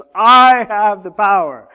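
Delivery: put-on very loud, high, drawn-out child's yell. Recalling adults at home talking about god, the speaker as a small kid: retelling a child's shout. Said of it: "this little kid who shouts".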